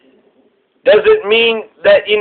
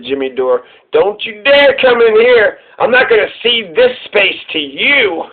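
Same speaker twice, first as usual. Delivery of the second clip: mock indignation. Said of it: "So he is saying".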